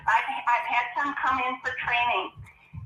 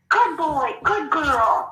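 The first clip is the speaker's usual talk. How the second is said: higher-pitched acted praise for a horse; positive praise; 4 semitones higher, much slower than usual. Trainer making a fuss of a horse that cantered, positive praise. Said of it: "and all positive".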